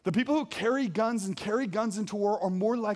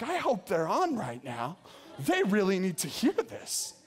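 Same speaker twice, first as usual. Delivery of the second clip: mock hopeful thought with a laugh; slower than usual.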